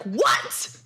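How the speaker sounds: stunned what. Retold or imitated. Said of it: "I was like".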